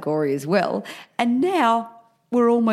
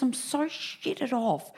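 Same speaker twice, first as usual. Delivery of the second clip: slow fed-up moan; 7 semitones higher, 7 dB quieter, much slower than usual. Retold or imitated. Quoting friend's annoyance.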